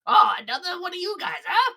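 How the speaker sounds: high, lazy amused voice; cocky shopkeeper. Acted. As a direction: act unimpressed by the threat. Gleb unbothered by attacker.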